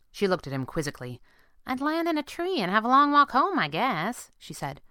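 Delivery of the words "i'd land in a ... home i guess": put-on high-pitched girl hero voice; breezy young partner, pitched up; girl sidekick. Girl answers her worried boss, high and breezy.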